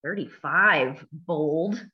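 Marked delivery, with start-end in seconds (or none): none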